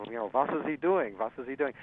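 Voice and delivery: lightly imitated German accent, "was" said as "vas"; a mild German-accented impression of a puzzled record boss; thick German accent. Alfred Lyon asks Gil Mallet what he's doing, mild German accent. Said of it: "in his thick German accent".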